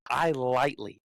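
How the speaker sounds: "lightly" given deliberate emphasis; stress on LIGHTLY. Real, not acted. Golfer downplaying his club throw, pointed stress on "lightly". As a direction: lean on the word "lightly". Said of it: "emphasis on the word lightly".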